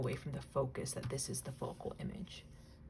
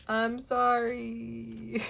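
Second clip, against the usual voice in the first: laughing apology; 5 semitones higher, 6 dB louder, much slower than usual. Real, not acted. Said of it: "apologizing while laughing".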